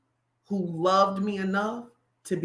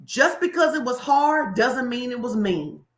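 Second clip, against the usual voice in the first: slow dictation pace; 2 semitones higher than usual. Shown as a demonstration. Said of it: "here, write this down".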